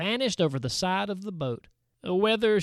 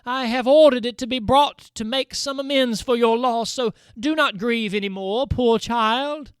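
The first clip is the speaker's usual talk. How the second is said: higher, louder consoling voice; comforting; 4 semitones higher, 5 dB louder than usual. A narrator's reading. Undine comforting Bertalda over her loss, kindly. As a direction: soothe a grieving child. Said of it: "holding it out kindly to Bertalda".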